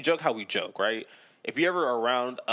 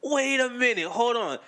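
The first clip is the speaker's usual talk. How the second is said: incredulous; 10 semitones higher than usual. Retold or imitated. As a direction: stop everything, you can't believe it. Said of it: "I was like".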